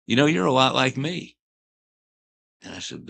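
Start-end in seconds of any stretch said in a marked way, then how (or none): 0.0-1.4 imitating Pee Wee. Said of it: "He said".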